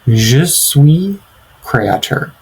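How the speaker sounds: Je suis créateur in French, with suis rising and créateur falling; French demo again. Shown as a demonstration. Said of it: "Our next example of this framework is".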